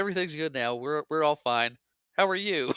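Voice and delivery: imitating forced casualness, lifting on the last question; frantic bluffing. Han bluffing the radio caller that all is fine, mock frantic. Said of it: "kinda frantic and weird as possible".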